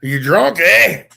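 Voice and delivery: Irish question lifting on "eh"; Irish accent. Shown as a demonstration. Showing how Irish asks "you drunk", questioning Irish accent. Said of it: "it sounds like a question".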